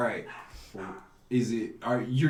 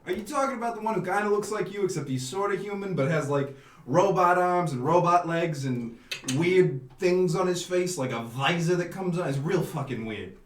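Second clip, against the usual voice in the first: put-on Italian accent. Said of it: "I do one Italian accent".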